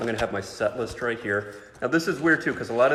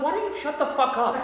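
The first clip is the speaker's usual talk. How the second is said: snapping; 4 dB louder than usual. Retold or imitated. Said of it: "I'm like".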